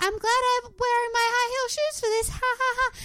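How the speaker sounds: high-pitched forced cheer with fake laugh; mimicking a contestant. Contestant climbing a hill in high heels, forced cheer. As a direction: put on a very high voice, end on a fake ha-ha.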